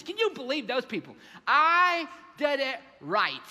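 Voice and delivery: loud, high, indignant complaint; older brother yelling at his father, loud and indignant; angry older brother. Acted. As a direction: vent like a resentful son.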